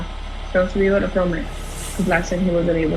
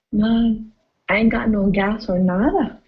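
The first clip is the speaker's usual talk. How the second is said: put-on Los Lunas accent; 2 semitones higher, slower than usual. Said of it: "Los Lunas people? They're like".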